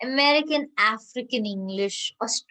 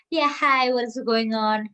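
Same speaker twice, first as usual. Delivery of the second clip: mock American accent; 4 dB louder than usual. Teacher mimicking American English for students, mock American accent. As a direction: mimic unclear American speech. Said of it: "The American English, you will find it's not at all clear".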